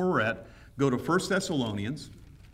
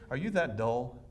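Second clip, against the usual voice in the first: mock exasperated Paul; 2 semitones lower, 4 dB quieter than usual. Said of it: "that's what he says".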